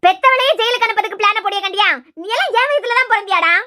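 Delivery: loud, indignant telling-off of her son; angry scolding. Acted. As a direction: scold him with outrage. Mother scolding son's joke.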